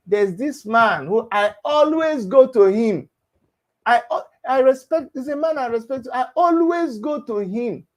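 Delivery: "always go to him" slowed and leaned on, imitating her testimony; emphatic quoted praise. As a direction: quote it back pointedly, stretching "always go to him". Quoting her earlier praise, emphatically.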